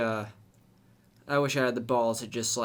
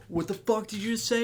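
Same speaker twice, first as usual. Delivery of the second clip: mock confrontation; 9 semitones higher, faster than usual. Driver confronting the boys.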